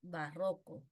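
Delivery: "barroco" with weight on the middle RRO; stress on RRO. Shown as a demonstration. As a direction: confirm "barroco" as ba-RRÓ-co, low and settled.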